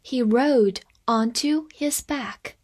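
careful slow sentence reading; measured classroom pace; slow read-along. Shown as a demonstration. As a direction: read it slowly for learners. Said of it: "我们慢慢来读".

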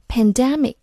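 "pandemic" with the stress on DEM; stress on second syllable. Shown as a demonstration. Teacher showing learners where the stress falls, "pandemic" stressed on DEM. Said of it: "重音在D前面".

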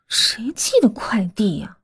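whispering. Acted. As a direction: whisper it to yourself uneasily. Alone at night, muttering.

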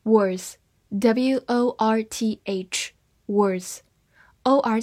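slow whispered spelling; slow spelled-out word. Shown as a demonstration. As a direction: slowly spell it letter by letter, whispered. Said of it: "我们来看一下五个单词".

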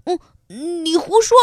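mock angry. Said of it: "小蚂蚁生气了".

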